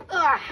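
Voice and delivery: short strained grunt while pulling; effort grunt. Real, not acted. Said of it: "sorry if my grunting is kinda cringe".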